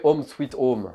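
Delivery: slow, showy English accent. Shown as a demonstration. French player looks for Home Sweet Home, English accent. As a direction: show off your English accent. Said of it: "admirez mon accent anglais".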